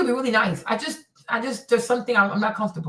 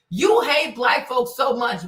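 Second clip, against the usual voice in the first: slow shout; 2 semitones higher, slower than usual. Real, not acted. Ranting at white fans.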